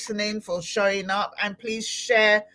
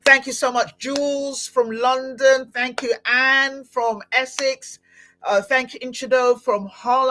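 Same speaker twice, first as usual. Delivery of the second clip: drawn-out, higher thank-you roll call; shout-out; 4 semitones higher, 3 dB louder than usual. Real, not acted. Host thanking listeners in the comments, lifted shout-out. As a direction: give each listener a lifted, lingering shout-out. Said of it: "I need to shout out".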